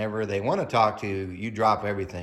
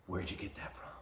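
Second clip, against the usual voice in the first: a hint of a hushed, low God voice; God's voice; 3 semitones lower, 14 dB quieter than usual. Mom warning about heaven, God asks quietly. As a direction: softly voice God asking.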